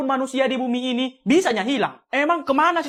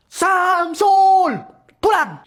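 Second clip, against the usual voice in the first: loud, higher scolding shout; angry yell; 5 semitones higher, 5 dB louder, much slower than usual. Acted. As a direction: order the boy home in a rage. Parent yells at son to come home. (orang tua membentak anaknya supaya pulang, marah)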